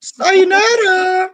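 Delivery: high, loud, stretched farewell call; loud drawn-out sign-off. Real, not acted. Co-host leaving the live chat, high loud drawn-out call. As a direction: sing out the goodbye, long and high. Calling out a jokey goodbye.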